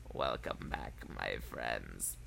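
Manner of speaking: spooky witch voice. Retold or imitated. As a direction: imitate a deep, hushed witch. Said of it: "your spooky witch voice is just kinda".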